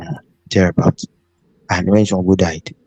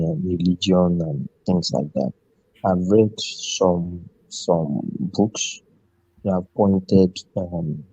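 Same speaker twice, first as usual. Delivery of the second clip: speaking quietly, trailing away from the mic; soft, low-volume talk; 7 dB quieter than usual. Real, not acted. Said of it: "your voice is very low".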